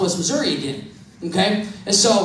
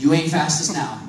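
a touch of a friend's taunt, lower; lightly voiced mocking friend; 5 semitones lower than usual. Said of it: "first thing out of Charlie's mouth".

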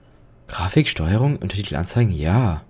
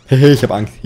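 nervous laugh; 2 semitones higher, 6 dB louder, slower than usual. Real, not acted. Nervous laugh while scared.

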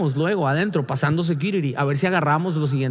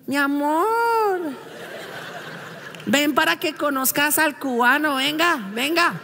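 high, coaxing invitation; mock sweet wife calling; wife calling sweetly; 8 semitones higher than usual. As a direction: beckon him over cheerfully. Wife calling him over.

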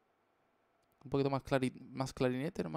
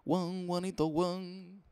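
higher, louder call; 7 semitones higher, 4 dB louder, much slower than usual. Pretend. Streamer calls out to Juanito. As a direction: call across the room. Calling out a name.

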